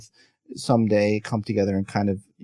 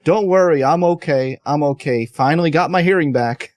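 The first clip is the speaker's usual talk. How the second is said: quoting Chris Rock; 4 semitones higher, 4 dB louder than usual. Retold or imitated. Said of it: "he walks on stage and he goes".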